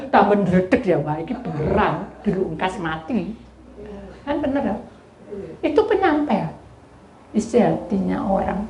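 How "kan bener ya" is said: ordinary delivery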